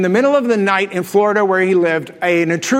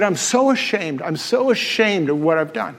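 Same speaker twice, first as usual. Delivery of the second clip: quiet shame; 3 semitones lower, 3 dB quieter than usual. Retold or imitated. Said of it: "he started to weep".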